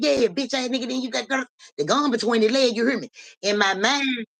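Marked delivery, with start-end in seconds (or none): 0.0-2.8 retold confrontation. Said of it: "I said".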